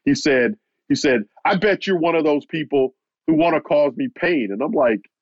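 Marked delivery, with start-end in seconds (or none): 1.4-4.5 higher-pitched retold accusation; mild mock hostility toward the reporter; accusing anger. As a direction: imitate him turning the anger on you. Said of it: "lashing out at me".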